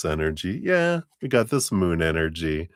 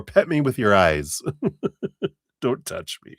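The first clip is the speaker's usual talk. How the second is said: cat attitude; 5 semitones higher than usual. Retold or imitated. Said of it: "when I'm done".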